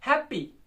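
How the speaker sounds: हैप्पी with a punched है and lighter पी; हैप्पी falling away after a strong start; strong-weak stress. Shown as a demonstration. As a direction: hit the first syllable of हैप्पी. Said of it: "पहला strong है".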